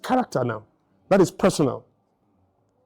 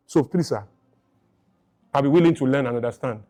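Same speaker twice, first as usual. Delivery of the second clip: gently respectful, as if asking to be taught; humble polite request. Retold or imitated. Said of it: "That's how you talk".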